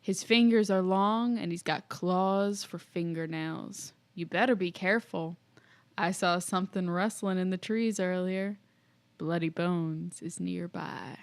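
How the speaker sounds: put-on hushed old grandpa telling a scary tale; lightly voiced creepy grandpa warning. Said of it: "our creepy grandpa voice".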